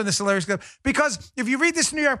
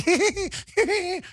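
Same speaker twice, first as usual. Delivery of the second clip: high, mocking cackle; Brian Stelter laugh; 9 semitones higher than usual. Host mocks how pundit laughs when uncomfortable, high giggle. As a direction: imitate a joker-like nervous giggle. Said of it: "That's Brian Stelter".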